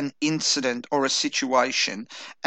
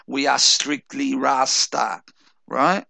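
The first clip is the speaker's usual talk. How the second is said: put-on slow Jamaican Rasta accent; light Jamaican patois accent; a reggae singer's Rastafarian accent; slower than usual. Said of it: "put on my best Rastafarian voice".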